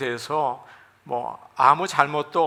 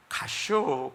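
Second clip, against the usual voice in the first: short, softer Chungcheong word; Chungcheong dialect; 5 dB quieter, much slower than usual. Shown as a demonstration. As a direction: toss off a terse Chungcheong 가쇼. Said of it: "충청도에서는".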